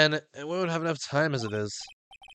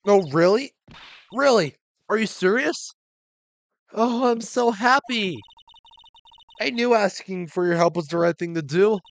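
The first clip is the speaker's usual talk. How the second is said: higher, giddy thrilled voice; overjoyed wife; 6 semitones higher, 4 dB louder than usual. Acted. Wife thrilled the detective will help Ronnie, high and gushing. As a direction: gush with relief.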